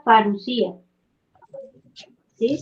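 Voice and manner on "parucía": parucía with the accent on the final í; stress on the I. Shown as a demonstration. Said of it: "lleva el acento en la I".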